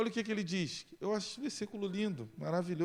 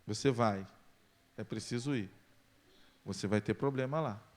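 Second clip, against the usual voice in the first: low, solemn voice of God; God warning Paul, lower and solemn; 8 semitones lower than usual. Acted. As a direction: speak as God, grave and low.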